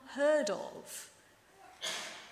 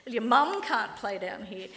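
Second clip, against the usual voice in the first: bully's last word; 5 dB louder than usual. Retold or imitated. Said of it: "That's how playground bullies talk".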